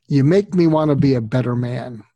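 a hint of a grumpy man's heartfelt line; Jack Nicholson impersonation. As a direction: lightly imitate a gruff movie star confessing. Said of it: "I'll do my Jack Nicholson impersonation".

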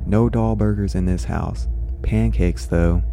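calm storybook reading voice; story narration. A narrator's reading. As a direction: read it like a bedtime story. Reads the story aloud.

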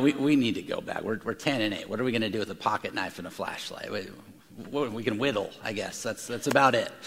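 soft, low, resigned voice; quiet resignation. Retold or imitated. Two young brothers quietly giving up the trip. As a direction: admit defeat softly. Boys admitting they must go back.

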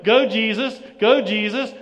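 loud sports-style cheering chant; mock cheer. Preacher mocks Hosanna as a cheer, loud chant. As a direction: chant it like a fan in the stands. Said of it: "not a cheer of".

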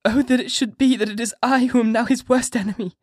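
a wife crying out that she is now her husband's enemy; anguished sobbing cry. A narrator's reading. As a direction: wail in self-loathing. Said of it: "amidst choking sobs".

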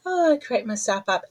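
ordinary delivery

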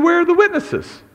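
preacher retelling Jesus confronting the council, indignant and high; indignant demand. Retold or imitated. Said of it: "gets punched in the face for asking".

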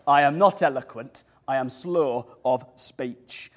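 a light mock Yorkshire accent, slowing down; hint of Yorkshire, drawing out the last phrase. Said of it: "Moses spoke with a Yorkshire accent".

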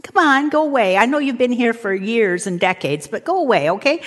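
understated, timid coaxing; half-hearted begging it to leave; mild mock pleading. Someone feebly asks a thought form to go, mildly pleading. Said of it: "move into that thought form going".

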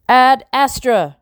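high, loud, drawn-out shout; ringing cry, pitched well up. A narrator's reading. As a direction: call it out slowly at full voice. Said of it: "I shouted".

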